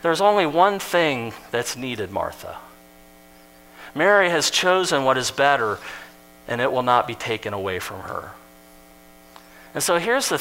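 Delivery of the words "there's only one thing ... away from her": gentle correction. Retold or imitated. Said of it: "Instead, he says this".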